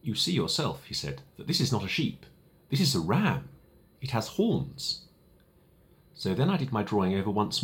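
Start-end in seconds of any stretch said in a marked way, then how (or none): 0.0-5.1 gentle, indulgent. Acted. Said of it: "smiled gently and indulgently".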